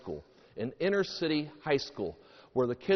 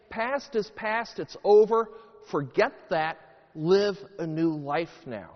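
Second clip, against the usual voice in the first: raised, forceful declaration; emphatic proclamation; 4 semitones higher, 5 dB louder than usual. Acted. Jesus making a public statement to all, emphatically proclaiming. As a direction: proclaim it with punched key words.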